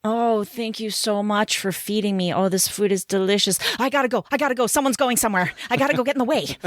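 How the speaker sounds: a hint of a silly pet voice; cat impression. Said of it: "This is my impression of a cat".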